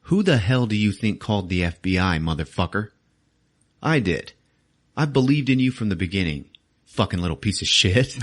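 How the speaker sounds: mild mock chewing-out; retold angry yelling. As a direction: scold the kid with moderate force. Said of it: "he just starts yelling in this kid's face".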